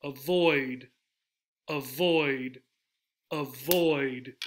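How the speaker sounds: avoid with VOID long and stressed; avoid, light first syllable, drawn-out falling VOID; stress on second syllable. Shown as a demonstration. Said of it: "It's in the second syllable".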